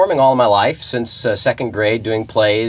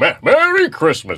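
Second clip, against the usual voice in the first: big, booming put-on voice; 6 semitones higher than usual. Talking about playing a mall Santa, showing the greeting in a big booming Santa voice. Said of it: "This big booming voice like that".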